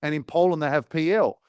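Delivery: lightly feigned wonder; sarcastic. Retold or imitated. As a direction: play dumb over a trivial discovery. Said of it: "The next thing I said that was sarcastic".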